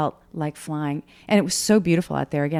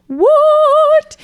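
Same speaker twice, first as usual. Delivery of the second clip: very high, loud yelp of alarm; shocked; 12 dB louder than usual. Retold or imitated. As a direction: shriek at the speed downhill. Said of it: "for me it was like".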